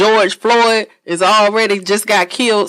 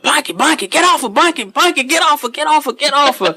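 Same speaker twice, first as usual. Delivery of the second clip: higher mock calling out to pull her off; mock frantic calling; 9 semitones higher than usual. Bunkie calling for the speaker to get off the girl. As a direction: voice the bunkie yelling from behind. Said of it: "my bunkie in the background".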